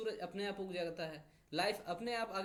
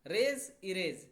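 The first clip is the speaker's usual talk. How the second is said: रेज, इरेज said slowly and loudly; रेज, इरेज stretched out for the class; slow drill; 4 dB louder, much slower than usual. Shown as a demonstration. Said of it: "इरेज मतलब मिटा देना".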